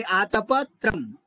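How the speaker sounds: आतपत्रम with a break between aatapa and tram; correct split pronunciation. Shown as a demonstration. Teacher summing up for students, आतपत्रम split before tram. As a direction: detach the final tram in आतपत्रम. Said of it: "इस तरह हम बोलेंगे".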